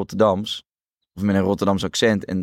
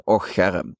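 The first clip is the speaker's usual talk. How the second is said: tender; 4 semitones lower than usual. Retold or imitated. Mother comforting her sad daughter, tender. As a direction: comfort a sad child gently. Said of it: "heel liefkozend".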